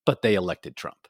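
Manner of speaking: low, understated deadpan; dead serious. Retold or imitated. Young Dutch daughter answering her mom, low and dead serious. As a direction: say it low, not kidding around. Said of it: "dead in the eyes, and was not kidding around".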